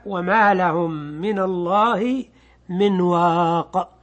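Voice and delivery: slow recitation drawing out the last word; Quranic recitation. Shown as a demonstration. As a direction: recite the verse slowly. تلاوة آية من الرعد. (تلاوة بطيئة للآية)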